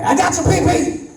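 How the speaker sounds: put-on high child's shout; kid yelling. A son yelling at his brother in the mall, a high child's shout. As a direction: squeal it like a little boy.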